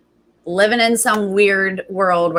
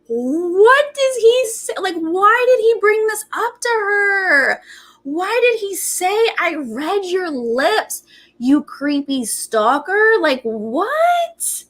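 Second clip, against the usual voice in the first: high, drawn-out wail of disbelief; incredulous outburst; 9 semitones higher, slower than usual. Real, not acted. Recapper reacting to his creepy lip-reading, high-pitched disbelief. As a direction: wail it slowly, as if you can't believe anyone would do this.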